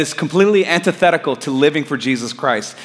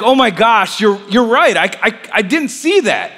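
relieved realization; 4 semitones higher than usual. Retold or imitated. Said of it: "I felt relief".

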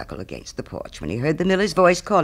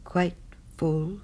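mildly dismayed, halting "Quite... full?"; a touch of sorrow, hesitant and questioning; rather sorrowful; 3 semitones higher, 5 dB quieter than usual. Acted. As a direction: repeat "quite full" softly, with a sorrowful pause between words. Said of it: "rather sorrowfully".

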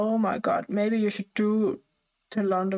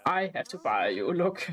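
deep boss voice; 4 semitones lower than usual. Retold or imitated. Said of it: "It was really like".

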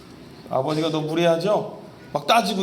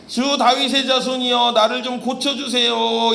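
higher, louder cry for mercy; blind man's shout; 6 semitones higher, 4 dB louder than usual. Retold or imitated. Blind men calling to Jesus on the road, loud plea. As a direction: call out to the Son of David. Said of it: "이렇게 소리를 질렀어요".

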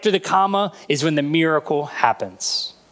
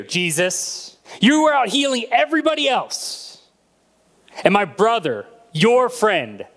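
angry accusation. Acted. Martha confronting Jesus about her brother, angrily. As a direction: throw the blame at him, pitched up. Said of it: "Can you hear the anger in that statement?".

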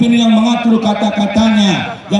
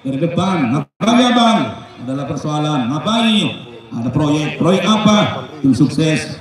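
husband and wife skit; 6 semitones lower than usual. Acted. Wife and husband dialogue acted.

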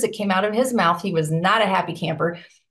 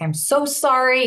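slow, slightly raised retold apology; repentant apology; 4 semitones higher than usual. Boss apologizing to the newbie, mildly repentant. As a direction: imitate a remorseful boss, drawing it out. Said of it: "he was really repentant and apologetic".

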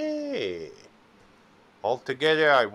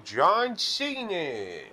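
announcer voice; 5 semitones higher, much slower than usual. Pretend. Announcing wrestler name.

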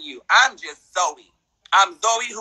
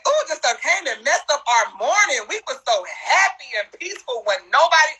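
laughing mock; 4 semitones higher than usual. Real, not acted. Mocking a troll on stream.

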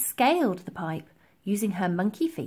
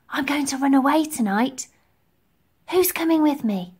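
lightly voiced girl, higher pitch; girl rallying friends; 4 semitones higher, 4 dB louder than usual. A narrator's reading. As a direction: announce a secret plan to friends. Girl rallies sleeping orphans.

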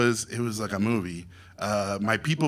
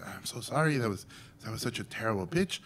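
sheepish apology; 8 dB quieter than usual. Retold or imitated. Apologizing after the failed pitch.

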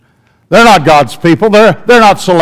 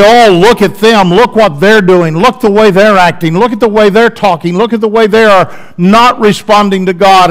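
louder, sneering finger-pointing; self-righteous critic mocking sinners, loud and sneering; haughty; 5 dB louder than usual. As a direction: judge others with smug scorn. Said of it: "rather than to be haughty".

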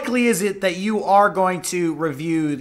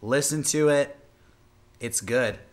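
much lower, slow and hushed; dramatic low voice; 8 semitones lower, 5 dB quieter than usual. Pretend. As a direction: lower the voice way down for a close-up. Dramatic close-up plea to caller.

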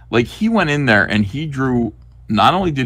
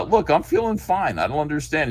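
high pleading patient; 5 semitones higher than usual. Acted. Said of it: "He goes".

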